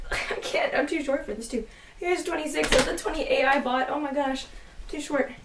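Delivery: straining to hold books up; strained, arms full; carrying heavy load. Real, not acted. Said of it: "this is really heavy".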